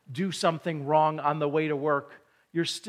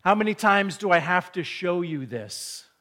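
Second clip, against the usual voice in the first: louder, mock-impatient; a father losing his patience with his kid; impatient dad; 3 semitones higher, 6 dB louder than usual. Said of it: "you might say something like".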